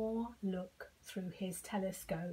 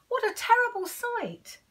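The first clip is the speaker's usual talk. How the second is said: much higher and louder gasp of alarm; dramatic alarm; 13 semitones higher, 8 dB louder than usual. A narrator's reading. Reading to children, big dramatic alarm. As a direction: sell the horror to the kids.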